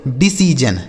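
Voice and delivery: "डिसीजन" as di-see-jan, ending in jan; low, falling "डिसीजन" with j for the last s; model pronunciation. Shown as a demonstration. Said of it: "यह लिखा गया दोस्तों आपका डिसीजन". ("डिसीजन", अंत में जन)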